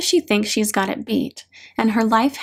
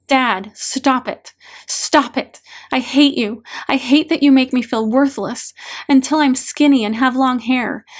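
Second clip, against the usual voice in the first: mildly raised, hurt and angry protest; angry release. Acted. Hurt daughter venting at dad in an energy release exercise, angry.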